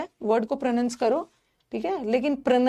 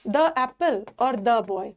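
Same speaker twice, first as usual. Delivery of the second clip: slow examples; much slower than usual. Shown as a demonstration. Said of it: "teacher gives slow examples".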